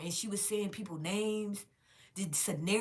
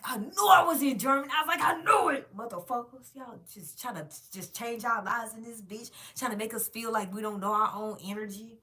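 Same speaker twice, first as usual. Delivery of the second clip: high, loud shouted realization; triumphant shout; 5 semitones higher, 9 dB louder than usual. Retold or imitated. Vlogger reliving a revelation from a movie, loud triumphant shout. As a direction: yell it out like you've cracked the secret.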